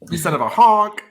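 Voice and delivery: high, loud silly insult; silly clown. Acted. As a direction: yell it like a goofy clown. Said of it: "devolves into honks".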